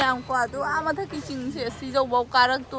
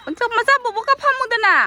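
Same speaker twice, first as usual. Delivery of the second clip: high-pitched, raised call to a little one; 10 semitones higher, 4 dB louder than usual. Real, not acted. Vlogger calls to a child to sit, high-pitched call.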